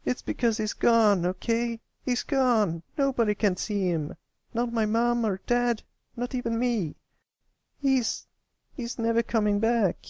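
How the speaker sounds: bursting out with grief and anger; sharp tone. A narrator's reading. Boy shouting at friends that his brother is gone, sharp and tearful. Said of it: "with a sharp tone".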